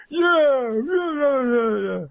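high, loud cheering crowd. Retold or imitated. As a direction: whoop like a fired-up squad. Troops cheering.

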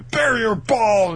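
high, very loud drawn-out battle cry; attack call. Retold or imitated. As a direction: announce a special move like an anime hero. Acting an attack-name call.

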